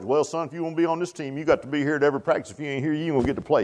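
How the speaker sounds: quick, soft coach impression; lightly voiced strict coach; ball coach. Preacher imitating the ball coach talking to a player, quick. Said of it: "you know the ball coach".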